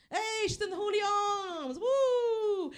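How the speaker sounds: big high whooping shout; excited cheer. Pretend. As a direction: cheer like you've just spotted her in the pub. Imagined cheer for a singer at pub.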